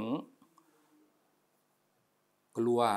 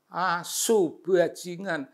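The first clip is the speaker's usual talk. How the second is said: imitating angry cursing; 7 semitones higher, slower than usual. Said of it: "Kita bisa bayangin".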